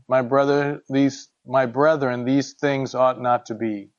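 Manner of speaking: measured, even Bible reading; scripture reading. Acted. Teacher reads James chapter three to the group, measured scripture reading. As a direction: read the verses out steadily and formally.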